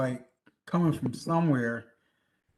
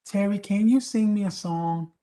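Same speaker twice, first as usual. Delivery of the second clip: pleading request; 4 semitones higher, 5 dB louder, slower than usual. Retold or imitated. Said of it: "I'd be like".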